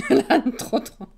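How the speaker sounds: put-on "L'âne trop trop" slow, laughing, in a southern Toulouse accent. Streamer to chat, laughing, mock Toulouse accent. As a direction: drawl it out Toulouse-style through laughter. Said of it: "l'accent toulousain".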